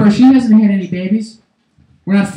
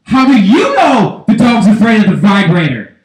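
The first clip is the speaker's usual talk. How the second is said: louder accusing comeback; wife retorting; 4 dB louder than usual. Acted. Wife answering her husband, indignant retort. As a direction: fire the question back, punching "you". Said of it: "And then the wife says".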